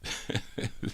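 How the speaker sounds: quiet, breath-like little laugh; soft chuckle. Real, not acted. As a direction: chuckle softly under your breath. Laughs at own slip while announcing.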